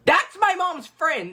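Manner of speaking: high, drawn-out outburst; exclaiming. Real, not acted. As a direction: blurt it high and stretched. Mock outburst at her drawing.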